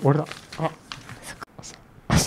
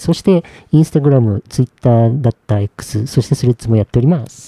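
slow announcement; 3 semitones lower than usual. Shown as a demonstration. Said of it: "あれを超素早くお願いします".

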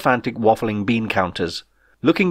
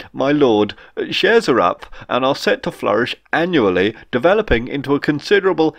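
a lightly voiced, long-winded financier; pompous accountant; 3 semitones higher than usual. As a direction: drone on about the shares.

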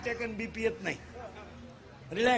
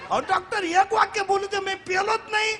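much higher laughing plea; high pleading boy; 10 semitones higher than usual. Retold or imitated. Boy begging the doctor, high and laughing. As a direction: whine like a scared boy. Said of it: "boy pleads".

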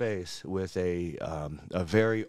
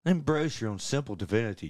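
same blessing voice in a Scottish accent; lilting put-on Scottish recital; 2 semitones higher than usual. Shown as a demonstration. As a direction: deliver it as a Scottish bard's benediction. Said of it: "it sounds better in a Scottish accent".

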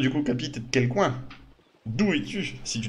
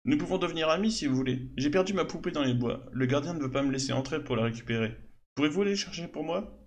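a lightly voiced little girl, slightly higher; hint of a five-year-old chatting; 3 semitones higher than usual. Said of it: "je n'ai que cinq ans". (voix de fillette à peine marquée)

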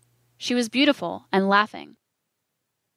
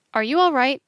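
concerned; 5 semitones higher, 4 dB louder than usual. A narrator's reading.

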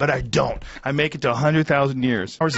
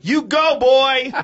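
cheering; 9 semitones higher, slower than usual. Pretend. Cheering shout.

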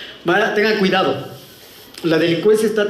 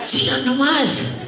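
high granny voice calling back; slow, high put-on old-woman voice; old woman coaxing; 7 semitones higher, much slower than usual. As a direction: coax them back as a mock old lady. Old woman calls robbers back.

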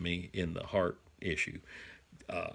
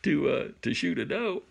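excited; 6 semitones higher, faster than usual. Retold or imitated. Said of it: "I'm all excited going".

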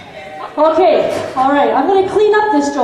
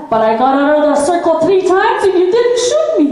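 punchline delivered while starting to laugh; can't hold back laughter at the end; laughing through punchline; 2 semitones higher than usual. Real, not acted. Joke teller to audience, laughing through the punchline.

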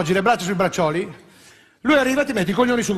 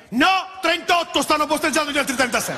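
sarcastic reply; 6 semitones higher than usual. Acted.

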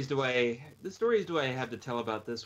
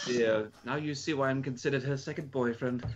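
lightly put-on English accent. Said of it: "get my English accent out again".

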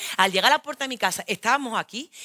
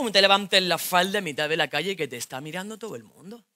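put-on jealous boyfriend; 3 semitones lower than usual. Boyfriend scolding her in the street, lower voice.

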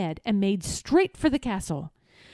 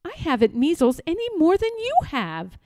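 shouting; 7 semitones higher, faster than usual. Acted. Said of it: "shouted Eric".

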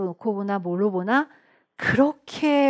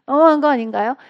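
louder, laughing as she repeats it; laughing tease; 3 semitones higher, 5 dB louder, faster than usual. Shown as a demonstration. Teacher teasing students who miss a repeated question, laughing louder. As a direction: laugh it out as a playful jab.

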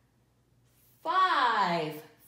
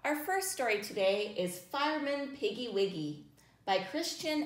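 put-on reading to children. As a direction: read gently to little listeners. Reading picture book to children.

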